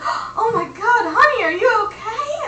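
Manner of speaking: imitating a shocked Southern lady, half-crying; alarmed old lady.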